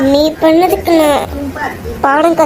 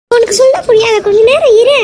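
irritated; 5 semitones higher than usual. Acted. Irritated wife shooing husband away.

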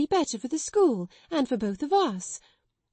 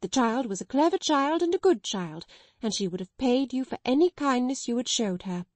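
building higher and louder to a defiant cry; daring more with every line; timid sister finally defying headmistress, building; reckless courage; 3 semitones higher, 3 dB louder than usual. Acted. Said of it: "with a kind of reckless courage".

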